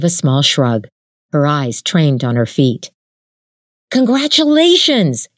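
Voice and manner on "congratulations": high, excited whoop of joy. A narrator's reading. Jin cheering Suja's news, whooping high. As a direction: cheer it out, pitch jumping up. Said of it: "Jin whooped".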